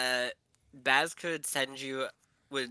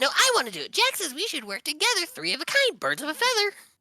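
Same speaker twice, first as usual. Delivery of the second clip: put-on high-pitched kid voices, higher and louder; 7 dB louder than usual. Showing the group the voices of the kids from Nightmare Before Christmas. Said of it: "I can do their voices".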